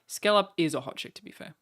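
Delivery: ordinary talk, nothing marked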